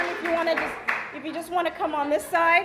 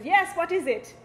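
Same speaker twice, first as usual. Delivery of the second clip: higher-pitched Jamaican mother answering; Jamaican accent; 5 semitones higher than usual. Acted. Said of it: "You know, in a Jamaican accent".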